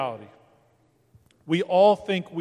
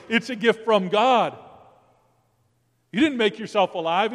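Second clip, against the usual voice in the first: God's reassuring voice. Retold or imitated. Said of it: "To which he says".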